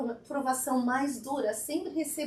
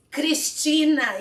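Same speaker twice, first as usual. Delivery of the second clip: "Cristina" slow and louder, each syllable given full weight; full name said firmly; 3 semitones higher, 10 dB louder, much slower than usual. Shown as a demonstration. To an audience member, her full name said slowly and firmly. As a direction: say "Cristina" whole, never "Cris". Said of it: "Cristina, não vai falar Cris".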